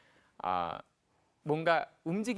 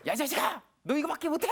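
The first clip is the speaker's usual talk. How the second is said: high, loud mock scolding; wrong angry reaction; 11 semitones higher, 4 dB louder than usual. Shown as a demonstration. Parent reacting first over poor results, angry shout. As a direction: demonstrate a parent blowing up at the child. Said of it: "원래 잘못된 걸 한번 해볼게".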